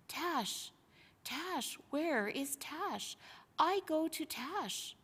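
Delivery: slow, dreamy chant of a name; a lightly voiced man in a trance, drifting; Lucy imitating the entranced soldier, slow and dreamy. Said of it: "like a man in a trance".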